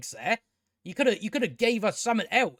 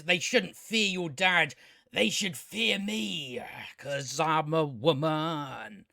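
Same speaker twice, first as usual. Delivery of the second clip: slow, drawn-out mock declaration; mock villain speech; slower than usual. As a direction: drag it out as a smug villain quote. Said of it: "she says".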